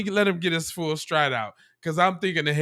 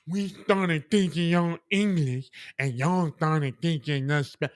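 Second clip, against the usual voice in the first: mocking imitation; 3 dB quieter than usual. Mocking clip speaker's line.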